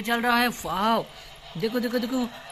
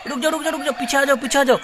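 higher, urgent calling out; urgent warning call; 4 semitones higher, 3 dB louder, faster than usual. Pretend. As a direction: stop them before the train. Warning scooter of train. (घबराकर पुकारते हुए)

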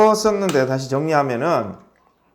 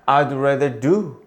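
slow model reading; 3 semitones lower, much slower than usual. Shown as a demonstration. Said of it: "teacher models sentences".

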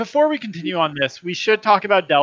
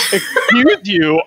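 mock indignant; 4 semitones higher, 5 dB louder, much slower than usual. Mock outrage at Doug's threat.

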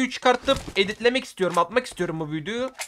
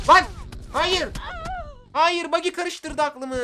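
dismayed cry; 8 semitones higher, slower than usual. Real, not acted. Buggy distracts him mid-fight.

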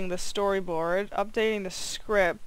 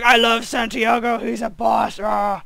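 excited fan; 5 dB louder than usual. Retold or imitated. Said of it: "she's like".

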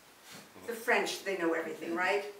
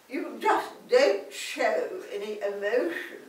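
a hint of a haughty English aristocrat; mild mock royal voice; lightly voiced posh duchess. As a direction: play a prim duchess sharing a secret. Plays posh Duchess character.

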